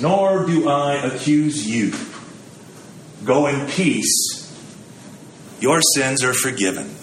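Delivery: slow, soft forgiving Christ; gentle forgiveness. Retold or imitated. Jesus forgiving the accused woman, slow and gentle. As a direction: grant forgiveness slowly and kindly. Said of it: "His response is".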